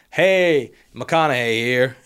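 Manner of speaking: a hint of slow McConaughey drawl; lightly voiced laid-back Texan movie star; a slow, easy-going intro with a loud opening hey; McConaughey impression. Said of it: "Matthew McConaughey".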